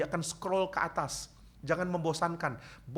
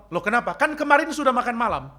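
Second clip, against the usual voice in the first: put-on much higher, louder whiny kid protest; protesting boy; 10 semitones higher, 9 dB louder than usual. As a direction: argue back with mom like a kid. Boy arguing with his mother. (anak membantah mamanya, suara tinggi dan keras)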